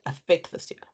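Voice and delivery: affect said firmly, leaning on the first word; stress on affect. Shown as a demonstration. Teacher to exam students, stressing affect. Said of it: "that's a very key word".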